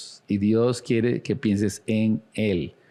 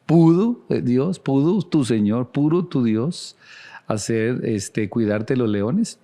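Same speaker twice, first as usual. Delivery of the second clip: re-voiced plea for an answer; urgent questioning; 3 semitones higher, slower than usual. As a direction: ask it pointedly, stretching each phrase. Preacher re-voices the king's anxious question.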